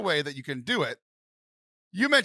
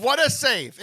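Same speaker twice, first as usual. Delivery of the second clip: sarcastic; 7 semitones higher, 5 dB louder, slower than usual. Retold or imitated. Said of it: "the big fat middle finger".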